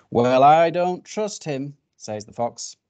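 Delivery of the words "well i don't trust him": loud, slow distrust; suspicious fox. Acted. Fox telling bird and rabbit his doubts, suspicious. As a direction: lean hard and slowly on the objection.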